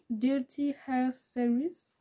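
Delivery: English title read slowly in a French accent; a shaky stab at the English title in a French accent. Real, not acted. Reading the book title to viewers, slow French-accented English. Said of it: "Mon accent anglais est pas folichon".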